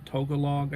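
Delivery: "Tagalog" said as TOH-guh-log; tentative pronunciation. Shown as a demonstration. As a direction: open "Tagalog" with a TOH sound. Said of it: "is the pronunciation".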